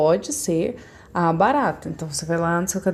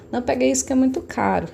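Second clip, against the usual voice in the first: a light imitation of a parent warning a child, quick and higher; mock scolding parent; 5 semitones higher, faster than usual. Teacher imitates a parent warning a child. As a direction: snap a quick half-serious parental warning. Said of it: "Vocês já devem ter ouvido falar".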